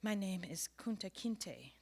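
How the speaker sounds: desperate, slow, halting plea; broken English. Acted. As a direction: plead slowly in broken English. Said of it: "replied in broken English, desperation".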